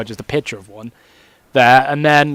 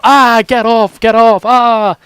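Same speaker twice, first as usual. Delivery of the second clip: startled yelp; 6 semitones higher, 6 dB louder, slower than usual. Retold or imitated. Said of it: "I'm gonna go".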